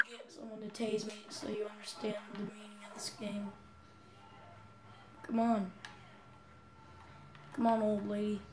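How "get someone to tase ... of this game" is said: whispering. Real, not acted. Whispered aside to viewers.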